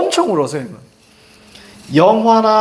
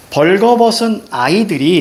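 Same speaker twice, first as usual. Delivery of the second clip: poem reading; 3 semitones higher, slower than usual. Shown as a demonstration. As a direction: read 벌거벗은 아이들이 out slowly like reciting the poem. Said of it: "이렇게 나오죠".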